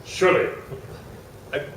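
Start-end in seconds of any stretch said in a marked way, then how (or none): 0.1-0.5 curt mock English "Shirley", R dropped, higher; English accent. Psychic repeats his name to host, mock English accent. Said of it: "they told me he's from England".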